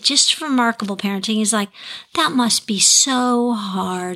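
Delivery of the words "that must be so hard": slow, tender sympathy; gentle voice. Retold or imitated. Father validating his crying daughter's feelings, gentle. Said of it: "Speaking in a gentle voice".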